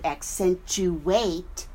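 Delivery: accentuate drawn out, ac-CENT-u-ATE; syllable by syllable. Shown as a demonstration. Teacher expanding the word, accentuate spaced out by syllable. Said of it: "we expand the word to".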